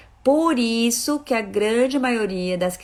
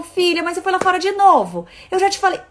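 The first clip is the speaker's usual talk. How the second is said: higher, louder told-you-so scolding; exasperated scolding; 8 semitones higher, 6 dB louder than usual. Retold or imitated. Mother scolding daughter for going outside again, louder and exasperated. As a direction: scold her like it's the fifth time.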